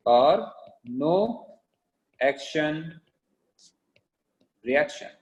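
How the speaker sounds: drawn out, long pauses between words; slow dictation. Real, not acted. Teacher giving notes to class, slow dictation. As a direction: dictate one word at a time.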